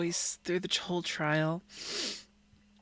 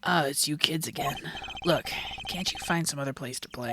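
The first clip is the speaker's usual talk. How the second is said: lower, grumbling policeman voice; mildly irritated cop, pitched down; weary policeman; 4 semitones lower than usual. Acted. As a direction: shoo the kids off wearily. Policeman character in the game.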